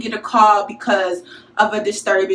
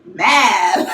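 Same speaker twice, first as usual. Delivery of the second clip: mad; 3 semitones lower than usual. Real, not acted. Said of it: "So I'm, like".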